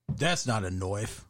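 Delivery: slow mock Australian accent; drawn-out Aussie movie-line impression; Crocodile Dundee. Host quoting a film seen as a child, mock Australian accent. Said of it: "you watched Crocodile Dundee".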